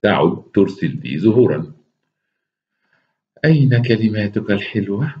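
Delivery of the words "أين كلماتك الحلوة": Zaza's voice. Acted. Zaza on the phone asking for sweet words, lightly voiced woman. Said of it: "اتصلت بي زازا".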